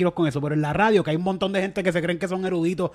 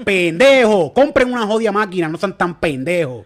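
mock rant at farm owners; 5 dB louder than usual. Real, not acted.

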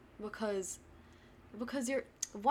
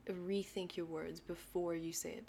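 whispering; 6 dB quieter than usual. Real, not acted. Whispered advice.

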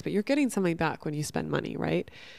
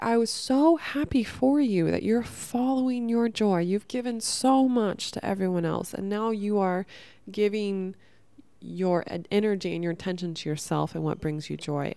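quoting a friend; 2 semitones higher than usual. Retold or imitated. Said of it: "He's like".

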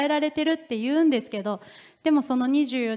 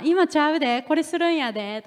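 Kansai dialect; 4 semitones higher than usual. Retold or imitated. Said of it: "関西弁で言うと".

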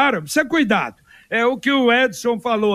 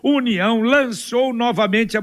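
ad read. Acted. Sponsor ad read over music.

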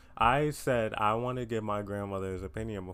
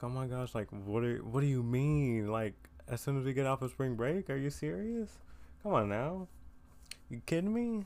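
rising higher into incredulous whining; mock disbelief; 3 semitones higher than usual. Telling listeners about sudden auditions, rising mock disbelief. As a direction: act out being caught off guard. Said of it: "I was like".

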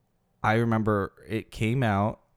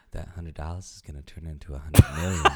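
laughing wish; 5 semitones lower than usual. Retold or imitated. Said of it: "I can look up and go".

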